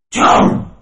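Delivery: whispered cry. Acted. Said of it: "she cried".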